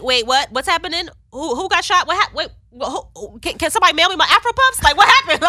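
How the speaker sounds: high, frantic, loud panicked questions; like hearing the worst news on your birthday; shocked disbelief. Retold or imitated. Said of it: "So I was like".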